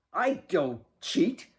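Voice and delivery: put-on slow, soothing boy's line; calm her down gently; placating boy. A narrator's reading. Alex soothing Kate before the race, placating. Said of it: "to placate".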